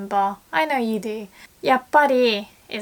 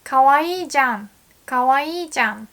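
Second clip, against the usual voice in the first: かわいいじゃん said quick and emphatic, less feminine; casual exclamation; 2 semitones higher, much faster than usual. Shown as a demonstration. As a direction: fire off かわいいじゃん brightly, like a statement. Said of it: "to make it less feminine".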